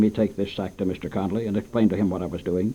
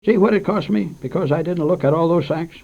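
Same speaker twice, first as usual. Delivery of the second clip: lightly voiced old storekeeper, higher; a hint of a fretful shopkeeper explaining; old shopkeeper grumbling about bad sacks, higher; 7 semitones higher, 3 dB louder than usual.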